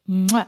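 smacking "mwah" kiss; playful kiss noise; kiss sound. Acted. Grandfather kisses the grandchild.

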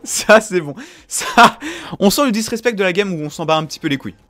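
loud, high caster hype; esports caster. Real, not acted. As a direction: hype the play up. Caster hyping the play.

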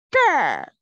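这 said slowly, loud and falling, like a teacher's model; clear zhe demo. Shown as a demonstration. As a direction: model 这 clearly for the class, with a firm fall. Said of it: "And then you say".

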